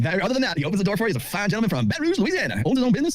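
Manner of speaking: high-pitched Southern gentleman impression; Southern accent. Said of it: "a Southern accent".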